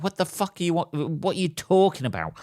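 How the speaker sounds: high, outraged disbelief; incredulous. Retold or imitated. Seller baffled by a lowball offer, incredulous high retort. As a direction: squeak out a baffled what the fuck.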